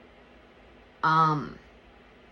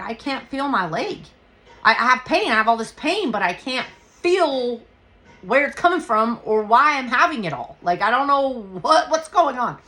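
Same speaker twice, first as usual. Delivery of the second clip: raised, high distressed pleading; retold panic; 5 semitones higher, 5 dB louder than usual. Injured woman to her friend about numb leg, panicked. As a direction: build from insistence into loud, high bewildered distress.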